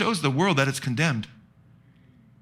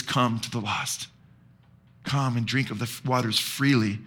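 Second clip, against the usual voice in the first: tender hushed quote; gentle invitation; 4 semitones lower, 5 dB quieter than usual. Acted. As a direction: quietly invite the lost to come. Voices the Spirit's gentle invitation.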